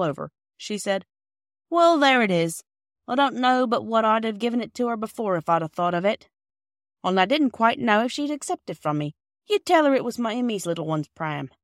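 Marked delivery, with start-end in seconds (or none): 1.7-11.5 lightly voiced old lady, a bit louder and fond; a hint of a motherly old woman offering a gift; kind old lady. Mrs Ransom hands over pram.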